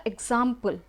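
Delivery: एग्जाम्पल split before its last syllable; teacher showing the pause inside एग्जाम्पल; pause inside word. Shown as a demonstration. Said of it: "यहाँ पर आपको बीच में एक pause".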